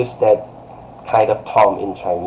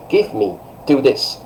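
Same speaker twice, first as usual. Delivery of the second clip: higher-pitched short order; imperative command; 3 semitones higher than usual. Shown as a demonstration. Teacher showing how an order sounds, imperative. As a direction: give a direct, strong order. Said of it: "It's like that".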